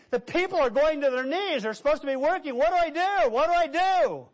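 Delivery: high, urgent plea for help; imitated frantic manager. Factory manager pleading with the visiting preacher, acted panic. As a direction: act out a flustered manager, pitch climbing.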